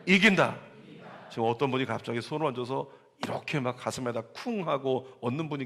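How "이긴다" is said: louder declaration. Shown as a demonstration. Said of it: "다시 한번".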